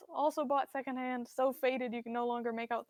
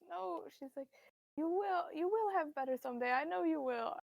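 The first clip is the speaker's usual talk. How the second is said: voice cracking mother; 5 semitones higher than usual. Acted. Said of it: "her voice cracks".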